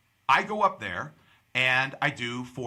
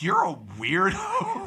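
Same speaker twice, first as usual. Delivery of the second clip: high, slow, drawn-out teasing; teasing verdict; 7 semitones higher, 3 dB louder, slower than usual. Retold or imitated. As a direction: stretch it out high, breaking into laughter. Mock verdict on the fake Brit.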